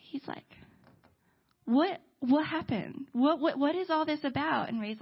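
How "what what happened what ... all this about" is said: halting, puzzled questions; imitated curious questioning. Gabe sitting down to question Ray, halting and curious. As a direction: stammer the what, baffled and curious.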